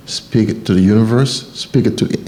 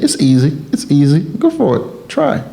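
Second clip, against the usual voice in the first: bright rising coaxing, higher and higher; cheerful encouragement; 6 semitones higher than usual. Retold or imitated. Coaching a teenager through algebra, upbeat rising encouragement. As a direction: urge the kid on, each push climbing higher. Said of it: "and I kept saying".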